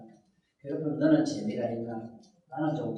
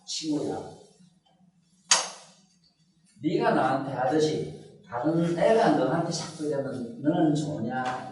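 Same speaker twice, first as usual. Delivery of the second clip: model question. Shown as a demonstration. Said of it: "한번 이렇게 물어봐".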